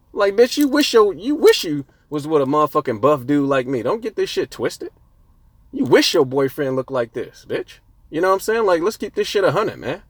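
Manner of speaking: getting riled up at the haters; fired-up scolding that needs calming down; heated rant. Real, not acted. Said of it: "Calm down".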